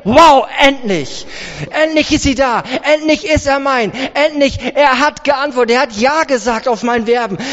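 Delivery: overjoyed, finally-at-last excitement; begeistert, verliebt. Acted. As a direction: gush like a smitten suitor. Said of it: "weil er so begeistert ist". (begeistert und erleichtert)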